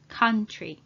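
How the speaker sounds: Country, first vowel a short "ah". Shown as a demonstration. Teacher repeats Country for learners, OU said as "ah". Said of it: "O and U together are pronounced as ah".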